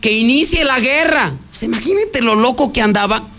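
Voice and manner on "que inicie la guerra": mild, higher mock yell; raised-pitch imitation of a battle cry; retold shout. Reporter quoting what the woman yelled, mild mock shout. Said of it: "Si esta mujer se gritó".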